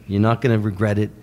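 lightly imitated reassuring New York manager; Shep Gordon. Manager reassuring filmmaker about the song, lightly imitated. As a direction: seal the deal, a hint of deep voice. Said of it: "He talks like this. Very, very deep".

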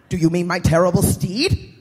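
a hint of a pompous evil lord; dark lord. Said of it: "spake the Dark Lord".

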